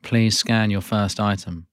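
machine-like checkout announcements; self checkout prompts. Acted. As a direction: read it like a supermarket self-checkout voice. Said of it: "You are playing the character Prompt".

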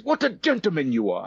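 put-on South African accent. Older man admiring a linen suit, South African accent. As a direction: compliment them in an imitated South African accent. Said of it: "with a South African accent".

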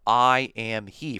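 "I am he" slow, each word weighted; emphatic. Shown as a demonstration. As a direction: lean deliberately on every word of "I am he". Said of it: "for emphasis".

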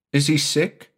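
put-on a boy bubbling about his plans; high quick child's voice; excited little boy.

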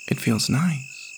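put-on high, slow, soft little-boy voice; small child's voice. Boy answers woman about holding a bear, high and soft.

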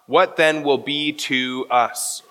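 slow, leaning on "us" at the end; "What then will be to us?" slowed, with "us" pressed; emphasis on us. Shown as a demonstration. Pastor showing Peter's Greek emphasis, slow stress on "us". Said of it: "the end of his question is the word us".

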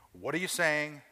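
"saying" said clearly as SAY-ing; saying, not seizing. Shown as a demonstration. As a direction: put the weight on "saying", say-ing. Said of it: "On the first one, what am I saying?".

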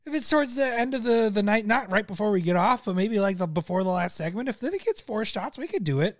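put-on high, eager voice of a drunk buddy; squeaky, pleading impression of his friend; high-pitched drunk friend. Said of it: "you're like".

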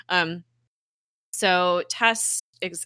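usual speaking voice

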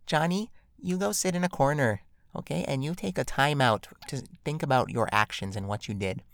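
lightly mocking a patient parent. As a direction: sweetly scold like a North American parent. Mocking North American parent.

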